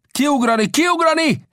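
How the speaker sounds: high, urgent repeated command; sharp high-pitched yell to jump; captain shouting orders. A narrator's reading. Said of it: "kiáltotta".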